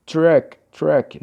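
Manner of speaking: "Truck" said alone, firmly, twice; sounding out a word. Shown as a demonstration. Teacher sounding out truck for the vowel check, demonstrative. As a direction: say "truck" as a separate word, opening on the T. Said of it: "Vamos falar isso aqui".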